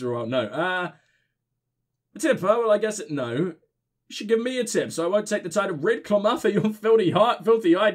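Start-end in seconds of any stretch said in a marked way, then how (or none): 2.1-7.9 put-on drunk voice. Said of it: "giving my drunk voice".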